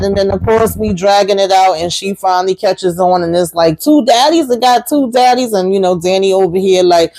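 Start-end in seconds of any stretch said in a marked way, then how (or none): 3.8-5.5 higher-pitched incredulous question; playful retold astonishment; retold disbelief. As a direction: echo it in mock surprise, pitched up. Retelling her finally catching on.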